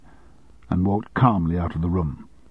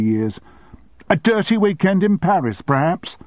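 higher, raised indignant outburst; angry secretary; 5 semitones higher, 4 dB louder than usual. Acted. Secretary confronting her boss, indignant. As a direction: hurl the years of sacrifice at him.

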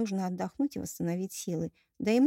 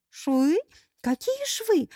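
tragic sob; 10 semitones higher, 5 dB louder, much slower than usual. A narrator's reading. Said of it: "трагически всхлипнула".

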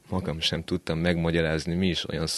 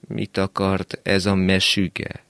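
put-on grumpy old man; 3 semitones higher, 6 dB louder, slower than usual. Old man wakes, asks.

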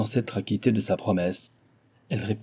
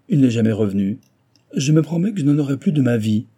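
lightly voiced stingy old man, a bit higher and louder; grumbling old miser; 3 semitones higher, 4 dB louder than usual. Old miser complaining to Cécile about doctors, lightly grumbling. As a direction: grumble like a mild penny-pinching guardian.

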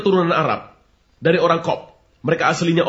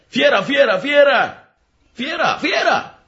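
rising, ever higher mock alarm shout; shouting fire; 9 semitones higher, much slower than usual. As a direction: yell a panicked fire alarm, climbing higher each time. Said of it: "yang berteriak dengan bahasa Afrika".

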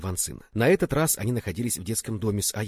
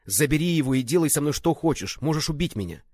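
raised, loud, imploring offer; desperate pleading; 6 semitones higher, 4 dB louder than usual. A narrator's reading. Accused man offering his life for the child, desperate plea. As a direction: beg him, giving yourself up. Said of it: "взмолился Ван Сяоши".

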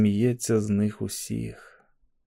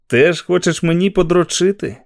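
unhinged voice; 6 semitones higher, 5 dB louder than usual. A narrator's reading. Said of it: "звихнутим голосом мовив Гарреті".

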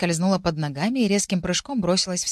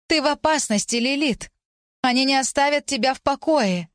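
high, urgent ghostly plea; ghostly warning; 7 semitones higher than usual. A narrator's reading. Ghost warning the heroine of danger, high and urgent. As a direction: warn her like a frightened spirit.

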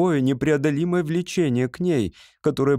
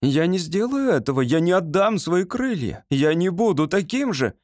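higher, firm, indignant protest; 6 semitones higher than usual. A narrator's reading. David refusing to give up his wings, indignant outburst. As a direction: refuse in a burst of outrage. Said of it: "в порыве возмущения".

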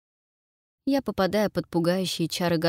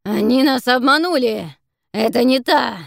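loud, higher enraged bellow; angry howl; 6 semitones higher, 10 dB louder than usual. Acted. Monster raging at being tricked, angry howl. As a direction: howl out the betrayal. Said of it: "Тварь гневно воет".

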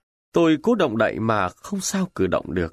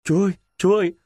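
a raised call with cupped hands; 6 semitones higher, 3 dB louder, much faster than usual. Acted. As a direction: call out to God over the gunfire. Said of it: "tôi khum tay kêu lên". (khum tay kêu lên gọi Chúa)

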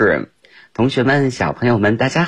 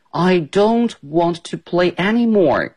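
angry Ted; 8 semitones higher than usual. Acted. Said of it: "Ted生气了".

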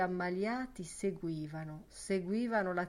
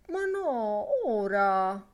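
insistent protest; 3 semitones higher, 6 dB louder, slower than usual. A narrator's reading. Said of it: "insisteva Lenehan". (protesta insistente, a voce alta)

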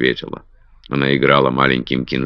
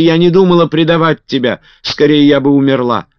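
very high, loud cry; Betty screams in denial, very high and loud; screaming no; 13 semitones higher, 8 dB louder than usual. A narrator's reading. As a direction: shriek it in denial. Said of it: "закричала Бетти".

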